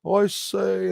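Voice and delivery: hammed-up, badly faked English accent. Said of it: "maybe a bad accent".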